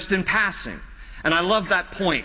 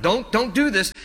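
mildly pleading, pitched up; 4 semitones higher than usual. Retold or imitated. Preacher voicing David's plea to God, mildly pleading. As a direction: act out an urgent plea, lightly. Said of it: "He's pleading with God".

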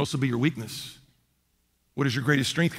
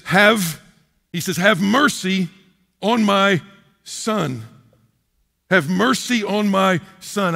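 pleading father; 2 semitones higher, 4 dB louder, much slower than usual. Retold or imitated. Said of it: "And Matthew says".

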